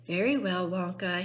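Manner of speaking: loud self-important pronouncement; importantly. Acted. Mister Salt stepping forward, self-important. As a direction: puff up and declare. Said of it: "he said importantly".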